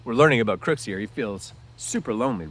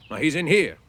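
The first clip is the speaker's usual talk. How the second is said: short; 7 semitones higher, 9 dB louder than usual. Acted. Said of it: "Crooks said shortly".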